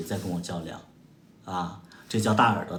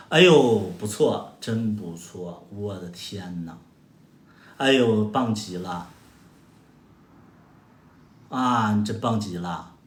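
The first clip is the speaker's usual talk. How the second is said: sarcastic praise; 3 semitones lower, slower than usual. Real, not acted. Mocking a commenter's argument.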